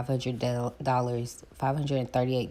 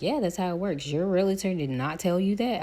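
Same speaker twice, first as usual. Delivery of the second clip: higher, incredulous lender; high mock lender voice; 7 semitones higher, 4 dB louder than usual. Retelling the lender's shock, high mock voice. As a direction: play the lender, high and disbelieving. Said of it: "My lender was like".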